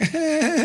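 high imitated laugh before crying; pained kid laugh. Kids fallen on their head, imitated pained laugh. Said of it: "he also laughs when he's in pain".

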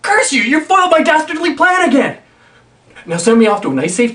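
high melodramatic villain shout; defeated villain. Acted. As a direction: ham up the cursed villain.

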